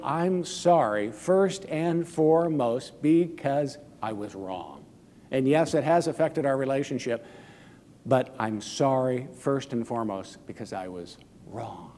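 mean every word of it; sincere apology. Shown as a demonstration. Pastor modelling a true apology to the one offended, sincerely. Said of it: "as opposed to".

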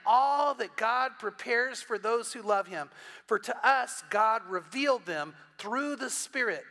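slow, emphatic Bible reading; measured, deliberate pulpit recitation; scripture reading. Acted. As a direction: proclaim the verse slowly, weighting each phrase. Reads scripture aloud to congregation.

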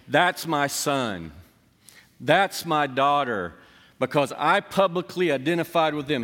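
proud Jesus. Acted. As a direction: savor each word like a proud parent. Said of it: "Jesus was going".

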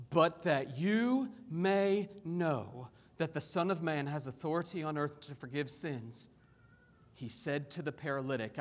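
measured, expressive Bible reading; scripture reading. Acted. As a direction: read scripture aloud with deliberate emphasis. Reads scripture to congregation.

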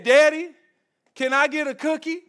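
lightly voiced two-year-old asking for a cookie; mock toddler voice. Dad imitating his daughter asking for a cookie, light toddler voice. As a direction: beg sweetly like a little girl. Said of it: "in the baby voice".

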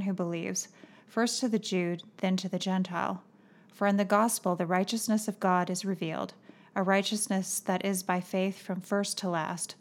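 measured, even Bible reading voice; scripture reading. Acted. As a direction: read the passage steadily to listeners. Reads Romans passage aloud.

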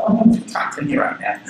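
a whispered, tearful brush-off; hushed tearful plea. Retold or imitated. To his kids while crying over Ruth, a whispered tearful plea. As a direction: half-whisper it through tears, mildly. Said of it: "you know, I'm crying".

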